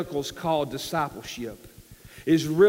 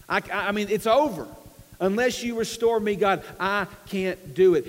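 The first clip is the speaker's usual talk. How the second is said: raised, halting appeal to God; acted helpless plea; 3 semitones higher than usual. David telling God he needs restoring, mildly desperate. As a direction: plead lightly, admitting you are beaten.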